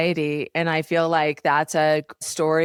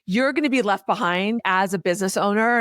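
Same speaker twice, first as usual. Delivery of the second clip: mock urgency; 3 semitones higher than usual. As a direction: press the warning with mild urgency. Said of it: "there's, like, a lot of urgency".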